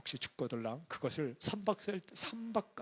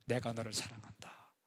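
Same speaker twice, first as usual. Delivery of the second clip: tender divine voice; 4 semitones lower than usual. Retold or imitated. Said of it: "딱 하나 들었어요".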